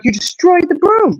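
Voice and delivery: high, slow mock kid disbelief; boys' shock. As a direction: imitate the sons, aghast at the broken broom. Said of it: "And they're like".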